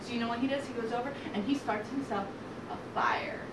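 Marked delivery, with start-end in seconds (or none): 1.5-3.4 low whispered reveal; conspiratorial whisper. A narrator's reading. Storyteller revealing the pig's trap, whispered. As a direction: drop to a whisper for the secret.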